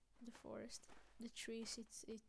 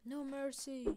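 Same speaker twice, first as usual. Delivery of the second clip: slightly raised war call; mild mock-heroic order; restrained battle call; 3 semitones higher, 3 dB louder than usual. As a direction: call it out firmly, holding back the shout. First battle call in game.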